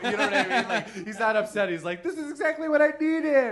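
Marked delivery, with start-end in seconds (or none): 2.0-3.5 put-on high cartoon child voice. Speaker voicing their cat after throwing it out the door: South Park voice. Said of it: "Your cat has a South Park voice".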